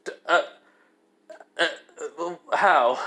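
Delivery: halting, broken-up stammer; shocked stammer. Acted. Kiba staring at Issei in shock, stammering. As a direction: stutter before getting the question out. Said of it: "pure in shock".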